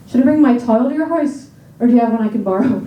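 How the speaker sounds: Irish vowels in "tile", said "tile" for towel; Irish accent, vowels bent. Shown as a demonstration. Brothers practicing, sentence in Irish accent. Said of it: "practicing this accent every day".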